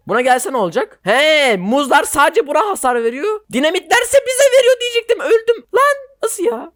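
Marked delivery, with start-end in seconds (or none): 3.5-6.7 high, louder outraged cry; sudden death shock. Real, not acted. Dying mid-sentence to dynamite, high shocked cry. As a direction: caught off guard and dying.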